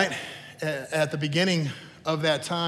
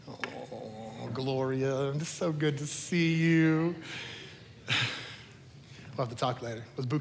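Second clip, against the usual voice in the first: slow gushing greeting; 3 semitones lower, 8 dB quieter, slower than usual. Retold or imitated. Church lady greeting Gloria.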